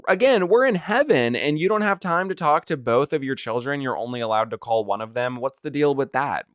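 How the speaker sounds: mock disbelief at heaven's rules; rising incredulous rant. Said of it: "I'm sitting here like".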